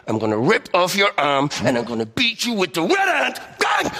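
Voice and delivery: high, excited punch noises; fight shout. Acted. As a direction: hammer each blow out. Mock fight threat, shouts.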